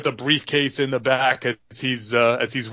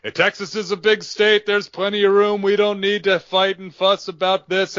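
higher, smug mock-friendly placating; condescending JBL; 6 semitones higher than usual. JBL brushes off Gino before the attack, smug and higher. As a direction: talk down to him like he's a nuisance. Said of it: "J B L's like".

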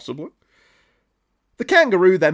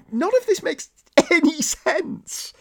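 very high, slow exasperation; exasperated disbelief; 13 semitones higher than usual. Real, not acted. Comedian giving up on the comic's senseless plot, high-pitched exasperation. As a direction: stretch it out in squeaky, baffled protest.

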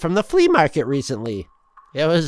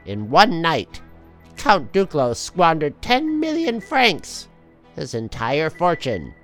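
dramatic comic narrator; story narration. A narrator's reading.

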